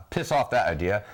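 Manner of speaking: lightly put-on British accent; attempted British accent. Shown as a demonstration. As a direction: have a half-hearted go at British. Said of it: "extent of my British accent".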